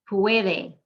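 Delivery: "Puede" as PWE-de, UE one sound; second-to-last stress. Shown as a demonstration. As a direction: stress the first syllable of "Puede". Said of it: "it's the second to last syllable".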